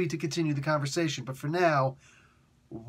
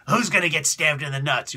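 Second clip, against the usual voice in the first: gruff boss grilling; 4 dB louder than usual. Retold or imitated. Boss grilling the next writer.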